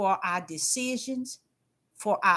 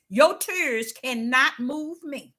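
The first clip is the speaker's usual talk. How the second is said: God's slow firm words; slower than usual. Retold or imitated. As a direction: say it calmly and unbending. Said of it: "what he was saying is".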